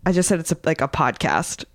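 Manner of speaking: words slurring a bit after a rough night; hungover. Real, not acted. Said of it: "I'm hungover".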